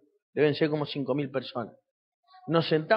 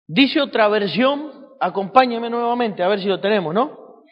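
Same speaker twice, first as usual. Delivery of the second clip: loud, raised preacher's voice; forceful preaching; 4 semitones higher, 8 dB louder than usual. Real, not acted. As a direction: call the verse out to the congregation. Preacher calls out verse, louder. (prédica enérgica a viva voz)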